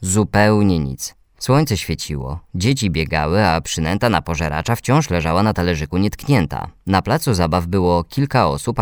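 ordinary delivery, nothing marked

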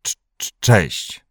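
slow stutter on the first sound; halting, stammered reply; stammered mumble. A narrator's reading. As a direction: struggle to get the greeting out. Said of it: "odmruknął Kuba".

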